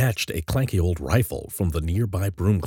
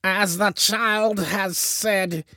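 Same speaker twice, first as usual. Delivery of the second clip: slow, high-pitched witchy proclamation; purring witch; 12 semitones higher, much slower than usual. A narrator's reading. Witch queen confirms the child's words, purring. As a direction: intone it with long, ominous vowels. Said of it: "Zeldabub purred".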